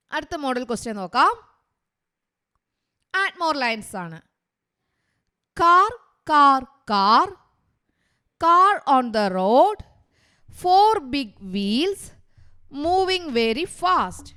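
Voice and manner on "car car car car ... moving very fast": slow, chant-like verse with stretched line endings; poem recital. Shown as a demonstration. Teacher reading a car poem to pupils, measured recital. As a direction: recite it line by line, punching first words.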